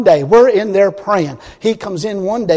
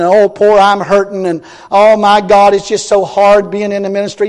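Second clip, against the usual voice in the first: louder hammed-up whining minister; mock the self-pitying preachers; mocking whine; 6 dB louder than usual. Preacher mocks weepy ministers with a hammed-up whine. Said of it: "this weepy little bunch".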